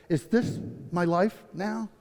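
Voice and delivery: soft, slow question to himself; hushed, dragged-out wondering; quiet disbelief. Retold or imitated. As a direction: ask it inwardly, slowly and softly. Despairing thought to himself in hospital.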